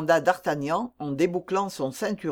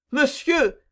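high, urgent exclamation; pleading cry; 7 semitones higher than usual. A narrator's reading. Raoul appealing to his father's friend, pleading cry. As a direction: cry out, pitch leaping up then falling. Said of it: "s'écria Raoul en serrant la main".

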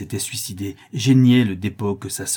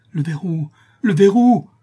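higher, then a loud shout; frantic cry; 9 semitones higher, 8 dB louder than usual. Acted. Jacques Ferrand screams about the bolt, building. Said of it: "s'écria Jacques Ferrand".

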